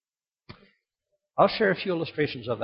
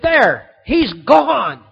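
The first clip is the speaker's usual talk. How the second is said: gloating; 7 semitones higher, 9 dB louder, much slower than usual. Retold or imitated. World and Satan gloating.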